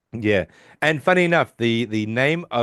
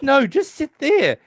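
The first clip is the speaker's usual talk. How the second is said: much higher, slow, louder command; bossy Sheldon; 5 dB louder, slower than usual. Retold or imitated. Sheldon telling Leonard to sit, higher, slow and louder. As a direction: slowly order him to stay put. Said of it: "he goes".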